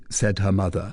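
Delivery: ordinary talk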